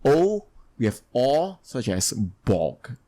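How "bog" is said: drawn-out "bog" with a short O. Shown as a demonstration. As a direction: say "bog" slowly with the short O, not the letter name. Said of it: "pronounced as an O sound instead of".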